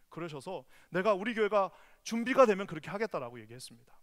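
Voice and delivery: ordinary talk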